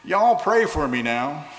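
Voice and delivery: put-on Southern accent, child calling out. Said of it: "in a charming Southern accent".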